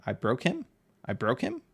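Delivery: "I broke him" with a questioning rise at the end; unsure, questioning. Real, not acted. Streamer checking a viewer's name, unsure rise on "him". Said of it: "Did I say that right?".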